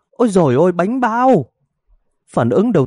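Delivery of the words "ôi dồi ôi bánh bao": high startled cry; wife shocked the buns are burning; alarmed wife. Acted. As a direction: yelp as she remembers the buns.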